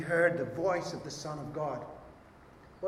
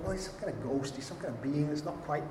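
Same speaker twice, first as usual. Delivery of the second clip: mock Witness; 3 semitones lower, 5 dB quieter than usual. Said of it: "Jehovah's Witnesses will talk to you".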